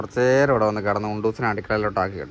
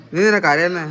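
calling out; 5 semitones higher, 6 dB louder than usual. Real, not acted. Calling to the crying child.

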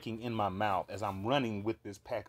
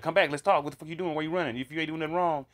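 higher-pitched imitation of a chasing officer; mock calling after; 5 semitones higher, 5 dB louder, faster than usual. Officers chasing us through the precinct, mock calling after. Officers chase the fleeing group.

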